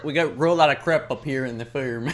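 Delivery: mock rural Canadian accent; mimicked Canadian accent. Co-host mocking how he says crop, imitated Canadian accent. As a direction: tease his Canadian accent with crap for crop, firm for farm. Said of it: "is that how you pronounce".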